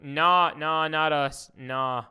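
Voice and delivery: loud, a hint of mocking brushed-off denial; lightly hammed-up Tates shrugging it off. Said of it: "They were like".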